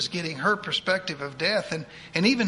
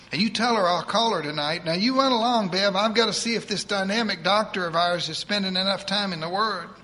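put-on higher, fast voice of a bossy old churchwoman; eager church lady; 4 semitones higher, 3 dB louder than usual. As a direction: rattle it off like a pushy saint. Edith bossing doctor.

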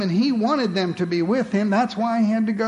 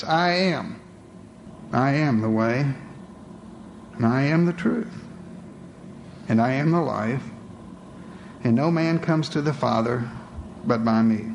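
solemn Jesus; 6 semitones lower than usual. Retold or imitated. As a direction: proclaim it deep and grave. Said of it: "Jesus turned to them and said this".

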